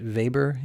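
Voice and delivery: Weber with a v sound for the W; "Weber" starting with a v, as "Vayber"; European pronunciation. Shown as a demonstration. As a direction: say Weber the European way, "Vay-ber". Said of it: "just like we pronounce it".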